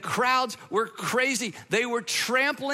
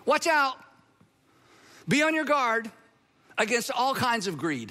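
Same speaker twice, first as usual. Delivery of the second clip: emphatic warning; 3 semitones higher than usual. Retold or imitated. Jesus teaching the seated crowd, emphatic warning. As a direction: sound a measured warning to a crowd.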